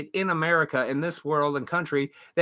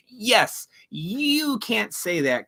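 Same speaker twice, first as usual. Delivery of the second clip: mocking the gullible; 5 semitones higher, much slower than usual. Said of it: "they are just being drawn in and going".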